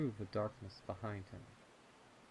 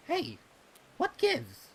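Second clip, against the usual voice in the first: calling out; 12 dB louder than usual. Acted. Snips calls out to friend.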